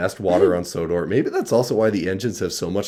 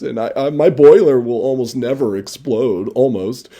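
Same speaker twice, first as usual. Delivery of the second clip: higher, louder earnest little engine gushing; Booster speech; 6 semitones higher, 5 dB louder than usual. Acted. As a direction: gush sincerely to the gang.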